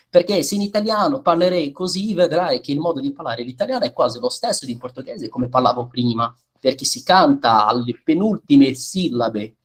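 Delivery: sung Italian penultimate stress; teacher switching to Italian to show the melody. Shown as a demonstration. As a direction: lean into the penultimate syllables, singing the line. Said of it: "depois eu vou automaticamente pro italiano".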